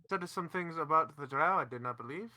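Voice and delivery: lightly voiced French accent; a hint of French in the vowels. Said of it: "You went very French very quickly".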